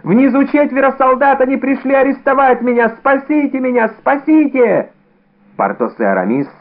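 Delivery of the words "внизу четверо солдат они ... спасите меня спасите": high, pleading wail of terror; panicked pleading. A narrator's reading. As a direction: beg them to save you. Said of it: "возопил он".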